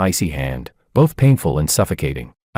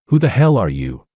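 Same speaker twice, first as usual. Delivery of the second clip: sneering; 3 semitones higher than usual. A narrator's reading. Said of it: "He sneered".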